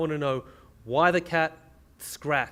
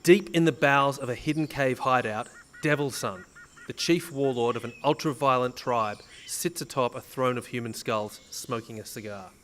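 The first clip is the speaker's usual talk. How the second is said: dramatic scene setting. Acted.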